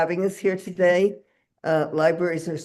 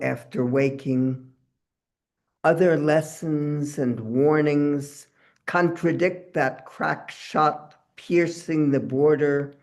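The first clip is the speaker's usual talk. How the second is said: slow, deliberate verse reading; measured poet at a public reading; poetry reading; 2 semitones lower, slower than usual. Acted. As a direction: recite the poem unhurriedly, pausing between phrases. Reads second poem aloud.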